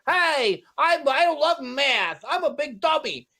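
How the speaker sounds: high, slow, nasal New York accent, playing dumb; mock Steve Martin doing a New York accent. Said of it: "That's a nasally New York accent".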